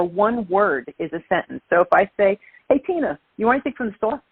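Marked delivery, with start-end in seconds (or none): 2.7-4.2 thick Brooklyn New York accent, words run together. Shown as a demonstration. Calling to a friend named Tina in a Brooklyn accent. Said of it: "I could turn it up".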